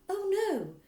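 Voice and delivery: high startled cry; teacher crying out in protest. Acted. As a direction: blurt it in alarm. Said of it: "Miss Honey cried out".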